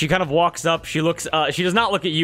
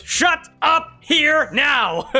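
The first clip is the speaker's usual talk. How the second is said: angry shout; 11 semitones higher, much slower than usual. Acted. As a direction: cut him off with a roar. Rahi cuts off the Duke.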